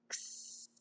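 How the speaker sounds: "X" said as a long "ksss"; "X" as its phonics sound, hissing out the end; letter sound. Shown as a demonstration. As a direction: sound out "X" as "ks" with a held s. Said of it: "Say X".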